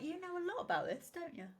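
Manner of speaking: high, fast and suspicious; sly accusation, quick and pointed; accusing. Retold or imitated. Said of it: "They were probably like".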